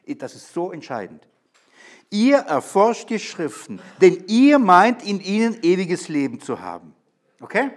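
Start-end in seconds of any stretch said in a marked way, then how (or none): 2.1-5.0 "ihr" hit high and loud, both times, slowly; stress on ihr. Shown as a demonstration. Preacher reading Jesus' words to the Pharisees, punching "ihr". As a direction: lean hard on "ihr" to point at the scholars. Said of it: "Im Griechischen ist das ihr betont".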